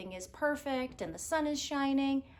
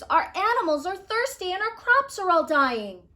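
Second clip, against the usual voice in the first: pleading villagers; 9 semitones higher, 9 dB louder than usual. Acted. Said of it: "pleaded the villagers".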